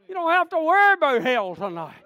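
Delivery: loud, high pulpit cry; emphatic preaching shout. Real, not acted. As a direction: drive it home to the congregation at full voice. Preacher repeats it louder for emphasis.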